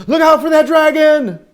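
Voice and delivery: urgent warning. Acted. Storyteller warning Beagle about a dragon, loud. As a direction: call out to warn the boat.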